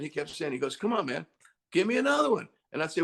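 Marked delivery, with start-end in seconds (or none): 0.8-2.5 high, coaxing plea; encouraging producer. Retold or imitated. Producer nudging a tired singer, high-pitched coaxing. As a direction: imitate a producer urging one more try. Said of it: "then he starts encouraging you".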